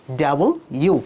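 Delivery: "ডাবল ইউ" as two words, double plus U; correct W. Shown as a demonstration. Teacher modelling W for students, distinct "ডাবল ইউ". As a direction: separate "ডাবল" from "ইউ" clearly. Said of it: "প্রোনাউন্সটা হবে".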